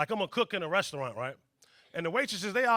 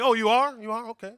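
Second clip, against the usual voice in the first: wild celebration; 11 dB louder than usual. Pretend. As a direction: turn the apology into a touchdown cheer. Celebration shouted at the guard.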